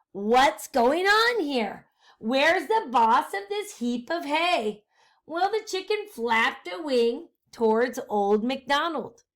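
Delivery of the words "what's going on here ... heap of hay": witch voice. Acted. Witch Gritch demanding the boss.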